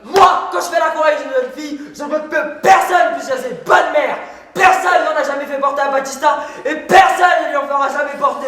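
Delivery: shouted, proud self-defence; indignant braggart's tirade; blustering boast. Acted. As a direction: declaim your honour for all to hear. Jealous man defends his honour.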